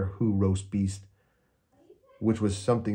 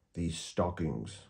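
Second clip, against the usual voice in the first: slow and soft, a sly grin; a touch of a sly grinning whisper; 2 semitones lower, 6 dB quieter, slower than usual. Acted. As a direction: savour it with a wicked grin. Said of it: "he grinned".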